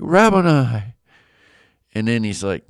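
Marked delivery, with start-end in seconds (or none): 0.0-1.0 higher, louder acted cry; lightly acted exclamation; retold joyful recognition. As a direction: call it out in mock amazement. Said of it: "And she's like".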